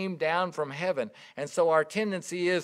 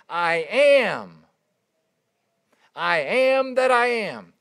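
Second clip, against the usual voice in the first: slow and louder, with a hint of solemn majesty; voice of God; 2 semitones higher, 7 dB louder, slower than usual. God answering Moses from the burning bush, lightly voiced and solemn.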